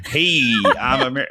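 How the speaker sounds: slow, half-hearted American accent; abandoned attempt at an American voice; mock American accent. Shown as a demonstration. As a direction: stretch it out in a joking American accent. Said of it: "Please do an accent".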